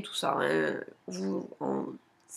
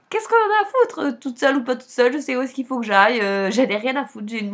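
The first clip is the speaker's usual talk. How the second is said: fired-up defiance; 3 semitones higher, 5 dB louder than usual. Real, not acted. Defiant rant about being alone.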